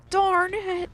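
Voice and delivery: a sudden frustrated yell at the locked door; angry outburst. Acted. Bowser fails to open lock.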